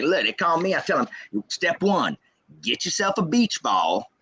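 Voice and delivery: lightly voiced Southern dad; dad's voice. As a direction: mimic dad laying out his plan step by step. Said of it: "that's how my dad talks".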